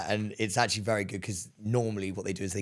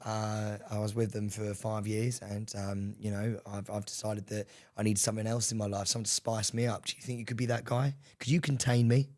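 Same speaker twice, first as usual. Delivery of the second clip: sultry woman voice; 2 semitones lower, 4 dB quieter than usual. Pretend. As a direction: purr it seductively. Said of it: "playing Denise, seductive".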